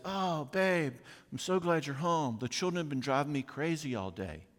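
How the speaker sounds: a hint of a weary wife greeting; wife's voice. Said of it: "your wife says".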